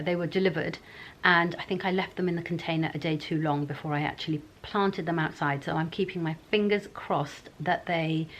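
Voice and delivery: talking with whitening trays in; words shaped round mouth trays. Real, not acted. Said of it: "I've got the teeth whitening trays in".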